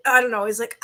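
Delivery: usual speaking voice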